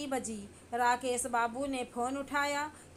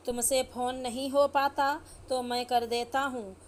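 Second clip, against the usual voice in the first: louder, scolding the daughter-in-law; raised voice; 4 dB louder than usual. Acted. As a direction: snap at her in frustration. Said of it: "इसमें इतना चिल्लाने की क्या बात है". (ऊँची आवाज़ में डाँटते हुए)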